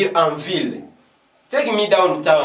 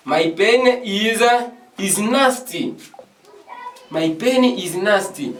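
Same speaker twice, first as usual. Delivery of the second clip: slow demo; 3 semitones higher, slower than usual. Shown as a demonstration. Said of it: "tu peux dire aussi".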